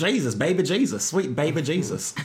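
mock-devout. Teasing friends about baby Jesus, mock-devout. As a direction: croon it with hammed-up adoration.

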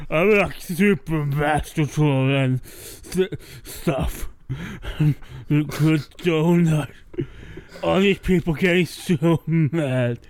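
troll voice. Acted. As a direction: drag out the smug troll's boasts. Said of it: "I have a voice frame in my head".

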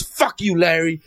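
lightly voiced mean retort; imitating Susie Essman. Comedian snapping at audience member named Larry, mock bitchy. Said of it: "just like the way she does".

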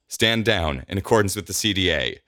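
firm order to the guards; mock authority, giving a command. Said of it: "in as commanding a voice as she can muster".

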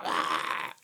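short breathy imitated gasp of pain; a hammed-up gasp of agony; imitating a film character's choked cry; mock cry of pain. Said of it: "and she's like".

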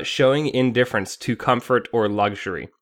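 reading a definition. Shown as a demonstration. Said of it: "define the word Spartan".

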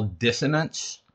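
"dissonance" with lisped s sounds; lisped word. Real, not acted. Writer naming a quality of his own work, lisping on "dissonance". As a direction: say "dissonance" through a real lisp, the s sounds slurred. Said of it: "My lisp makes that hard to say".

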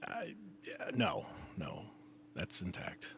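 breathy unvoiced whisper. Real, not acted. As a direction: hush it like a secret. Embarrassed denial about his penis.

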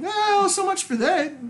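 dry aside. Retold or imitated. Quoting his own reaction.

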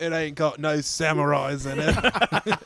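lightly put-on Australian accent, slow; attempted Australian accent. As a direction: have a go at a rough Australian accent. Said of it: "best Australian accent I got".

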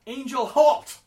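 high, full-throated call; belted shout. Acted. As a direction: belt it out to stop him. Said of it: "I'm going to belt out".

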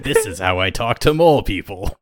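lightly voiced haughty duelist; a hint of a smug rival; Seto Kaiba voice. Shown as a demonstration. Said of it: "my knockoff, uh, Seto Kaiba voice".

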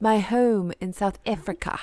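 softly put-on South African accent; light mock South African accent; Val Kilmer. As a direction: imitate a film actor's South African accent. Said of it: "He sounded like Val Kilmer".

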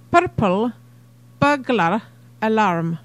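tongue twister in a light Scottish accent; rolled Scottish "burglar alarm", word by word. Shown as a demonstration. Showing friends the twister in a Scottish accent. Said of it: "Try and say it with a Scottish accent, and I'll go first".

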